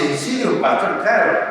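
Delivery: eagerly agree, as if relieved, mildly acted; retold delight. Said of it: "estaba feliz".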